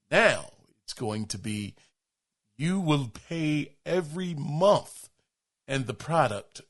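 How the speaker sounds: slow, deliberate attempt at a famous narrator; half-successful impression with weighty pauses; Morgan Freeman. Shown as a demonstration. Host reading the updated adage as requested, slow mock Morgan Freeman. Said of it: "Do it in my best Morgan Freeman voice".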